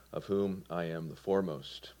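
normal talking voice

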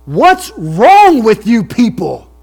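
loud, high, slow outburst; almost yell it at the crowd; near yell. Retold or imitated. Preacher retelling Sproul scolding the audience, near yell. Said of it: "in a animated voice, he almost yelled".

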